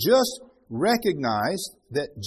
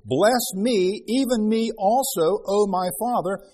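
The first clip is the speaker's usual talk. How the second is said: a milder, slower plea; pleading; 4 semitones higher, 3 dB louder, slower than usual. Acted. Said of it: "Esau lifted up his voice and wept".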